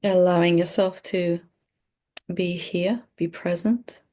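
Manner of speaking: calm, unhurried meditation guide with long pauses; measured meditation delivery, pausing often; guided meditation. Real, not acted. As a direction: lead them gently through breathing, leaving space between phrases. Leads a breathing meditation.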